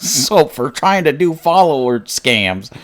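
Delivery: laughing through the words. Real, not acted. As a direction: giggle while teasing. Mocking chatter while laughing.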